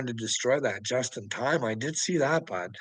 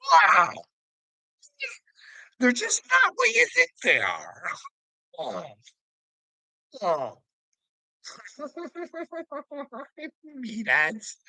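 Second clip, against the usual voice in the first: ordinary talk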